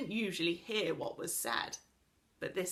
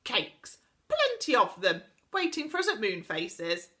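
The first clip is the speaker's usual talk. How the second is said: cheerful Saucepan Man; 3 semitones higher, 6 dB louder than usual. Acted.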